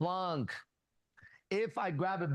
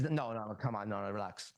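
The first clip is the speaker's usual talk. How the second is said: low, softening reassurance; retold soothing; 6 semitones lower than usual. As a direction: imitate calming someone down, voice dropping and softening. Acted quote calming someone down.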